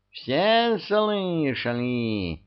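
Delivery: high, very slow, drawn-out appeal; mock wail. A narrator's reading. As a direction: wail to everyone as witnesses. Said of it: "завопил Васька". (протяжно завопить)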